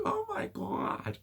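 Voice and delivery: high breathy gasp of awe; gasping amazement. Retold or imitated. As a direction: breathe it out in shock. People's amazed reaction.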